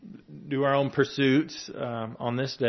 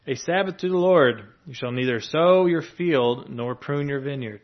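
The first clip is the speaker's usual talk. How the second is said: louder, solemn reading of scripture; 4 dB louder than usual. Acted. Preacher reads Leviticus to the congregation, louder and solemn. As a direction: declaim the law like a proclamation.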